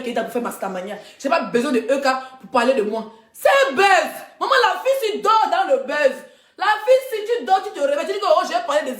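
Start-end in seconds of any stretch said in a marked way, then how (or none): 3.3-6.2 excited. Real, not acted. Proclaiming the buzz, loud.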